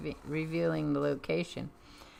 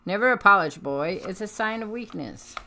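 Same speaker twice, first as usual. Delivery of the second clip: stern villain; 2 semitones higher, 4 dB louder than usual. Acted. Villain scolds young lieutenant.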